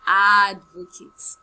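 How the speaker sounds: "advocate" drawn out slow and loud, stress on "ad"; slow emphatic teaching word. Shown as a demonstration. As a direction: stretch "advocate" out and hit the first syllable. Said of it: "Now she is an".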